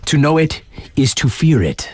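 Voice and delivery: hushed, spooky whisper; a campfire-story whisper of dread; ominous whisper. Acted. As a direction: lean in and whisper it like a warning. Ominous aside in announcer patter.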